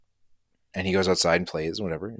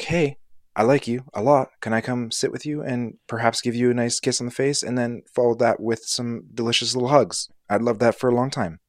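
Georgia; 3 semitones higher than usual. Pretend. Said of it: "Georgia would just be like".

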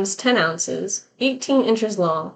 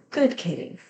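creepy whisper; 3 semitones lower, 6 dB quieter than usual. A narrator's reading. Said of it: "a rough voice close to my ear whispering".

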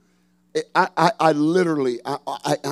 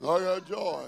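softly said; 7 dB quieter, slower than usual. Shown as a demonstration. Pastor leading church softly, quiet declaration. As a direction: say it quietly to yourself. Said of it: "Smile a little bit".

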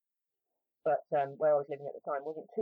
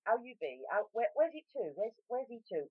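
higher-pitched West Country imitation; West Country accent; 7 semitones higher than usual. Shown as a demonstration. Imitating West Country locals' greetings, higher broad West Country accent. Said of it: "where they all talk like this".

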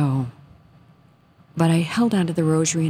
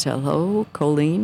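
lightly imitated Italian priest on the phone; Italian accent; slower than usual. Priest phoning Colleen, imitated in an Italian accent. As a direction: greet her with a touch of an Italian accent. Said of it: "I hear this Italian voice".

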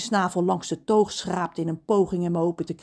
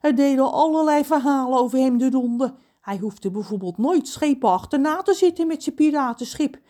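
lightly raised storyteller cook; a hint of cook John; 5 semitones higher, 4 dB louder than usual. Lightly voiced cook retells Pedro legends. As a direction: boast a little as the cook.

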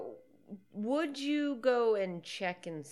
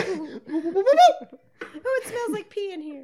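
laughing mock Jesus; 9 semitones higher, 9 dB louder than usual. Voicing Jesus in ball pit.

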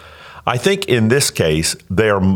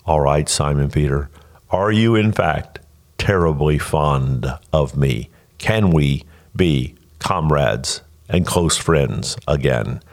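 gentle Jesus; 5 semitones lower than usual. Retold or imitated. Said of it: "Jesus adopts the verb".

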